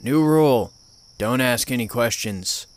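lightly voiced stern old man, snapping; a hint of a gruff old man laying down the law. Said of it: "an old gruff voice came from the other end".

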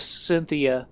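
lightly voiced ghostly call of a name; ethereal calling voice. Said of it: "we hear a kind of ethereal voice calling out to us".

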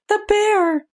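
very high squeaky mascot bear; Snuggle. Acted. Host showing co-hosts the advert bear, in a tiny high voice. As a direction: pitch it way up like a toy bear. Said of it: "Always talks like this".

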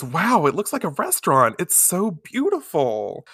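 mock-dazzled admiration; awed. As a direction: mimic a newcomer marvelling. Acted awe at the fancy hall.

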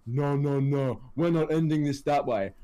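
lightly put-on wrestler voice; a hint of a firm, heroic protest; Rock impression. Fan mimicking the challenger refusing to end the match, lightly voiced. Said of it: "And then Rock's like".

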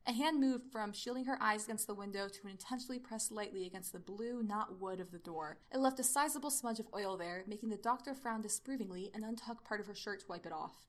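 measured read-aloud narration; even storytelling voice; story narration. A narrator's reading. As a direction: narrate the action evenly.

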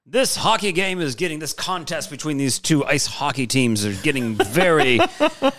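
lightly voiced old-timey radio announcer; a hint of a 1930s radio announcer. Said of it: "I love your old-timey radio voice".

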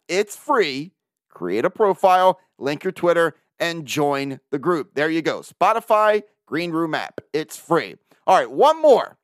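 brisk sponsor read, selling it; upbeat host ad read. Acted. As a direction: pitch the product like a radio spot. Host reads sponsor ads.

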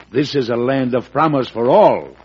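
ringing oratory. Acted. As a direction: declare it like a founding promise. President's grand speech.

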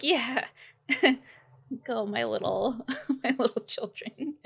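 a light touch of a proud parent, laughing through it. Pretend. The speaker beaming at the dancing kids, laughing proud parent. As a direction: cheer them on like a doting mum. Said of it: "like a proud parent on the side".

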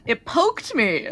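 slowed right down for clarity; slow clear repeat. Real, not acted. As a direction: spell it out slowly. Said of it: "a what?".

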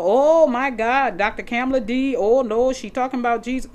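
lightly hammed-up outraged listener; mock shocked critic. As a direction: play the scandalized church member. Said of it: "people who will say".

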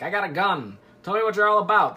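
lightly voiced detective demand; Poirot. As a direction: playfully put on a detective's challenge. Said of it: "That's Poirot. He sounds like that".

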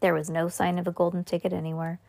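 usual speaking voice

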